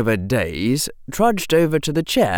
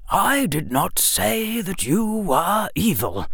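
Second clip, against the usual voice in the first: serious; 7 semitones higher than usual. Acted. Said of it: "Dumbledore said seriously".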